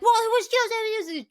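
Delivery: high, loud flustered stammer; flustered Mike. Retold or imitated. Mike flustered as friends turn on him, high stammer. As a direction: stammer defensively under attack. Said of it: "He is like".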